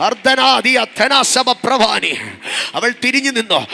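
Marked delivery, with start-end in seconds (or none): 0.1-2.1 slow, drawn-out speaking in tongues. Real, not acted. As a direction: let the tongues flow slowly and reverently. Slow tongues over music. (പതുക്കെ അന്യഭാഷ)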